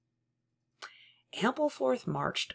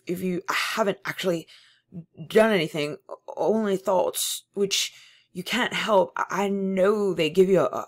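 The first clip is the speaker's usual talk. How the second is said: louder, stammering, desperate appeal; eager, frightened pleading; 8 dB louder than usual. Acted. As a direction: beg him for reassurance, tripping over words. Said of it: "began eagerly appealing to him".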